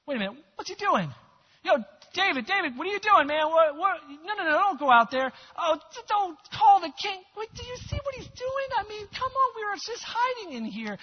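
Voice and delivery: high, loud, frantic whispered-hiding panic; panicky soldiers. Retold or imitated. Hiding soldiers watching David go out, high frantic panic. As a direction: pitch it way up in alarm as the men scramble.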